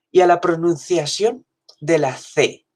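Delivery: usual speaking voice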